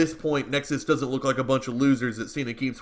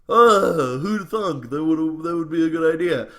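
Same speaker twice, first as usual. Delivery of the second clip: a loud, hammy fake English accent put on for one line; bad English accent; 4 semitones higher, 6 dB louder than usual. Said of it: "that was the worst English accent".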